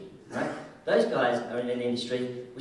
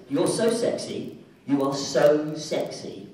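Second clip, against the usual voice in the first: mock seductive; 6 dB louder, slower than usual. Joking sexy compliment to audience.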